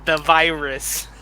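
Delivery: slow, drawn-out Malkovich menace; John Malkovich. Retold or imitated. Cohost tries his Malkovich on a fed line, slowly. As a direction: savour each word like a cool villain. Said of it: "John Malkovich impersonations".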